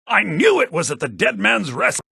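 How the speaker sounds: triumphant exclaim; excited outburst. Acted. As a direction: burst out, thrilled the guess was right. Scholar hears the find.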